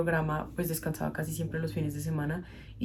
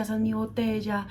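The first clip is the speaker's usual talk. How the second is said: put-on higher, whiny child's protest again; boy repeating his claim; child's protest repeated; 4 semitones higher than usual. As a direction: keep the boy's insistence going. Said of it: "empezó a gritar y decía".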